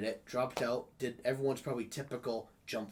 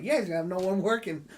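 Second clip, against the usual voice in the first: gloating quote to boss; 8 semitones higher, 9 dB louder than usual. Retold or imitated. Retold gloating line to boss.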